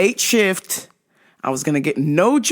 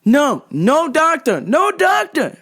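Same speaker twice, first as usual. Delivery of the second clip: much higher, strained, broken English pleading; a mock desperate customer begging for a stronger cream; 9 semitones higher, 4 dB louder, slower than usual. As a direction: squeak out the demand like a desperate, out-of-it customer. Customer refusing doctor.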